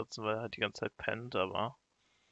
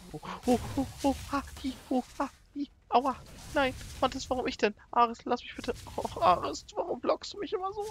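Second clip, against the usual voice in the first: much higher, squeaky whimpering pet dino; whiny dino voice; 13 semitones higher than usual. Acted. Streamer voices his tamed dino begging Ares to stop, high squeaky whine. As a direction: play the bitten little dino pleading to be spared. Voicing a dino being bitten.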